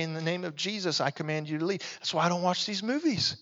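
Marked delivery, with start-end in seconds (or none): 0.0-1.8 soft, unforced command; simple authority. Shown as a demonstration. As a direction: order it out without raising your voice. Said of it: "just simply with authority".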